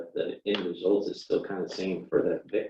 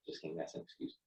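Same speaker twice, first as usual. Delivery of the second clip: whispered aside; 4 semitones lower, 18 dB quieter, faster than usual. Real, not acted.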